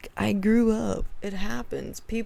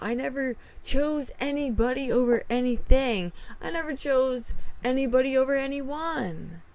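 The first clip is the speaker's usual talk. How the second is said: heated denial; 4 semitones higher than usual. Retold or imitated. Retold angry reply.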